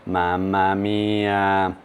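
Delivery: talking round a hot bite; chewing hot pizza while speaking; mouth full of hot food. Real, not acted. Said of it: "masalahnya masih panas banget".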